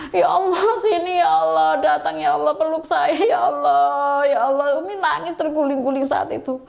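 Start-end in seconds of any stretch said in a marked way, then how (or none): 0.1-4.8 imitating a crying prayer, mildly; retold tearful plea. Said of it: "Umi nangis, Umi nangis". (menirukan doa sambil menangis, ringan)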